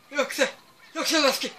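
urging shout. Real, not acted. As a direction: egg the runner on at full voice.

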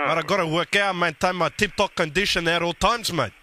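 Guido prank character. Acted.

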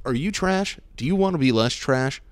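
lightly hammed ad host; upbeat sales pitch question; infomercial voice. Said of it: "sounds like an infomercial".

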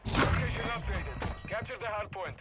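distant military radio voice; radio announcer. Acted. Game announcer voice.

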